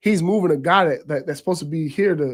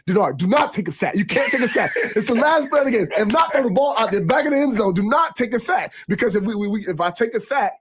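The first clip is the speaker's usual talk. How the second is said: imitating a fired-up coach, pitched higher; mock coach warning his quarterback urgently; animated coach; 5 semitones higher than usual. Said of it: "you know how Bo-, Borges get animated".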